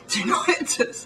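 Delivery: "Tinnitus" as tin-EYE-tus, high and laughing; drawn-out laughing "Tinnitus" with long middle i; mimicked American pronunciation. English speaker still amused at Americans, laughed tin-EYE-tus "Tinnitus". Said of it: "Americans say tinnitus".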